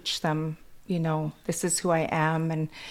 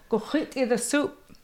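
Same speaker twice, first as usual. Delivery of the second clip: granny's bossy order; 7 semitones higher than usual. Retold or imitated.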